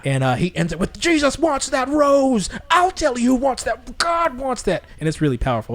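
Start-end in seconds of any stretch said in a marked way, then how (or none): 1.0-4.8 high, slow, fervent preaching; preaching pastor. Retold or imitated. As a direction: preach it with full conviction. Quoting pastor's powerful ending.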